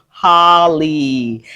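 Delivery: "Holly" drawn out in two long syllables; exaggerated pronunciation. Shown as a demonstration. Teacher showing vowels give a name sound, exaggerated "Holly". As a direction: stretch each syllable of "Holly". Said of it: "And I exaggerate that".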